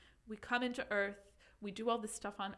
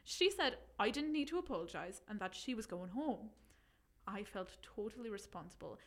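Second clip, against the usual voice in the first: put-on reading in a light Irish accent; a hint of Irish accent. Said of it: "do you think I could do it in Irish?".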